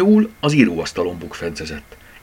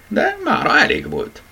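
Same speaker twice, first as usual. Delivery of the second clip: higher-pitched yawned words; yawning. A narrator's reading. Rabbit done for the day, yawning wide. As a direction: talk through a big yawn. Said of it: "ásított tele szájjal".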